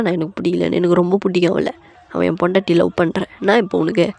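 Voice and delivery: brisk, fed-up scolding; acted irate husband; angry telling-off. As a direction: send the aunt packing. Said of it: "J K செம்மையா போட்டு திட்டி".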